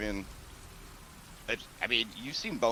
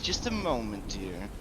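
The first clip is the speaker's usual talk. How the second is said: hostess voice; 2 semitones higher than usual. Acted. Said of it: "And she says".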